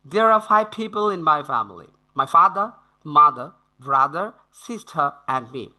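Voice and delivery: slow, clear British reading with pauses at commas; slow model reading. Shown as a demonstration. Teacher repeats the sentence slowly for students to copy. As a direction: read slowly so learners can copy. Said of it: "শুনুন, বারবার শুনুন".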